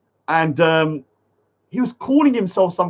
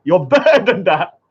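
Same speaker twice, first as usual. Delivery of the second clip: laughing; 3 dB louder than usual. Real, not acted. Laughing mid-line.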